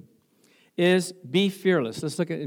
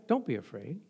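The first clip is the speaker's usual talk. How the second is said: reassuring; 5 semitones lower, 8 dB quieter than usual. Real, not acted. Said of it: "a true believer should not be afraid".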